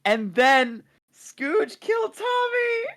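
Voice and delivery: high, laughing disbelief. Real, not acted. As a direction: tell it while cracking up. Retelling friendly fire, laughing.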